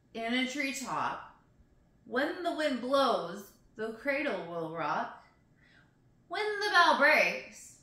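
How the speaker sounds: slow, deliberate rhyme recital; drawn-out storybook delivery; nursery rhyme reading. Acted. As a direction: recite it line by line with pauses. Reads a nursery rhyme aloud.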